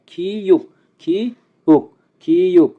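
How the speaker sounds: খিউক with aspirated kh, closing on k; pronunciation demo. Shown as a demonstration. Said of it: "খিউকের উচ্চারণ খ এবং ক এর মতো". (খিউক: খ দিয়ে শুরু, ক দিয়ে শেষ)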